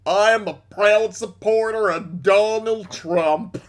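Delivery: lightly voiced Cartman-ish dimwit; a hint of a smug cartoon kid; pompous poster, Cartman-ish, lightly done. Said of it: "sounds like a weird mix of, like, Cartman and his Chris Chan impression".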